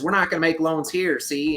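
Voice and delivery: lightly hammed-up New York banker accent. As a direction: try a mock old-time New York accent. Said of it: "that's my best New York accent".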